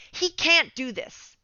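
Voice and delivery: slowed, deliberate "He can't do this"; slow, measured. Retold or imitated. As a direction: say "He can't do this" slowly, as a calm assessment. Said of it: "fourteen K M M R player say".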